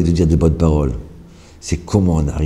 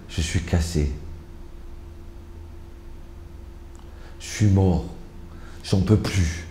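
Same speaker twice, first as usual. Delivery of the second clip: soft, worn-out grumble; weary complaint; 9 dB quieter than usual. Acted. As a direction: mimic someone drained, giving up. Acting out negative morning self-talk.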